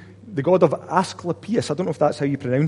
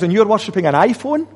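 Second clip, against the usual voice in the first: incredulous; 5 semitones higher, 3 dB louder than usual. Acted. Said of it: "He might say to us".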